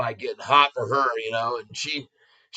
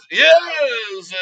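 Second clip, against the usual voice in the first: excited shout; 10 semitones higher, 6 dB louder than usual. Real, not acted. Celebrating his stock trade.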